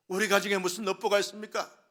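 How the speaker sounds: loud demanding complaint; complaining to God. Retold or imitated. Pastor voicing a family blaming God, loud accusing complaint. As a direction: demand an answer from heaven. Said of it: "라고 말하면서 하나님께 원망 불평합니다".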